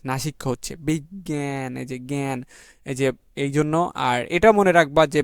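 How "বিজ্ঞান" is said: বিজ্ঞান slowly and softly as "big... gyan", second half through the nose; nasal pronunciation demo. Shown as a demonstration. Teacher showing the nasal sound, slow nasal "big-gyan" for বিজ্ঞান. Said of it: "নাকের মধ্যে দিয়ে আসতেছে".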